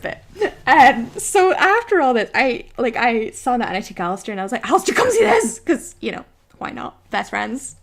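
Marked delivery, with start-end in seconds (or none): 4.7-5.6 high, loud call to a friend. Retold or imitated. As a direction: shout for someone to come and look. Calling a friend over.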